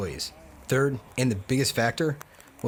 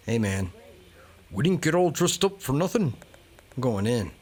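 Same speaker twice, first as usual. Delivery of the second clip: light mock Scottish accent; a hint of Scottish brogue; 3 semitones higher than usual. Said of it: "That was my Scottish accent".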